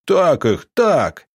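loud, high gleeful shouts; joyful cheering. A narrator's reading. Onlookers cheer from the windows, loud and high. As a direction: egg them on happily. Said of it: "радостно комментировали из окон".

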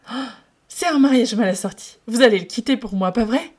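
loud, high, eager rush; light up and push on; brightened hope. Acted. Wei Ying brightens, thinking Lan Zhan will leave him.

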